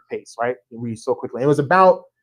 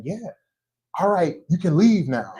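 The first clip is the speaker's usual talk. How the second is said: deadpan; 4 semitones higher than usual. Retold or imitated. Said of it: "he's so deadpan with it".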